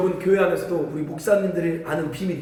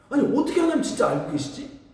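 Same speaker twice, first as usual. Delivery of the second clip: ordinary talk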